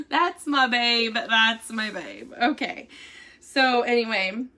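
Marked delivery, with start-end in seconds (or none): 0.1-2.3 slow, laughing, affectionate; fond laughing. Real, not acted. Wife proudly claims her heavy husband, laughing fondly. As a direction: laugh it out fondly about him.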